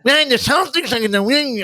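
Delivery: imitating a big Boston caller; Boston accent. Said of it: "a big Boston accent".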